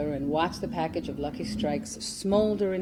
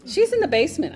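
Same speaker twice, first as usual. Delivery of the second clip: high, loud call up the stairs; 12 semitones higher, 7 dB louder than usual. Retold or imitated. A girl calling up to Doña Provi, loud and high. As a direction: sing it out to tattle on her friend.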